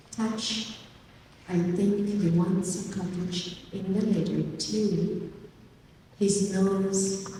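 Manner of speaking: measured poetry recital with long pauses; poem reading. Acted. Poet reading their poem to an audience, slow, deliberate recital. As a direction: read it as verse, phrase by phrase, letting each image land. Reads own poem aloud.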